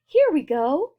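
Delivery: high, loud whoop of joy; gleeful shout. A narrator's reading. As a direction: cheer it like a roller coaster rider. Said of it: "Grandpa Joe shouted".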